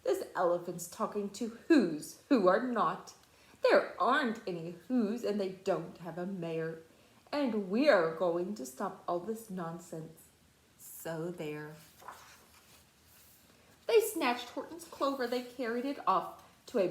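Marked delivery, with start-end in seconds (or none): 0.0-11.7 jeering shouts. Acted. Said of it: "came shouting".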